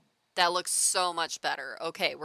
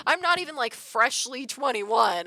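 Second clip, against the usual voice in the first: outraged protest; 7 semitones higher, 6 dB louder than usual. Retold or imitated. Quoting own outraged protest.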